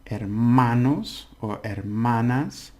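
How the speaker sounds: hermanos or hermanas slowly with stressed syllables marked. Shown as a demonstration. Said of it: "the syllable you stress".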